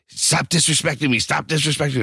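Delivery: high-pitched mock protest; mock outraged woman; indignant mimicry. Mimics woman in mask argument.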